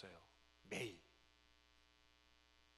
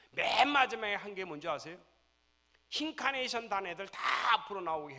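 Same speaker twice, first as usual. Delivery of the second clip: loud, high sermon voice; impassioned preaching; 8 semitones higher, 14 dB louder than usual. Real, not acted. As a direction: drive the point home. Preacher climax.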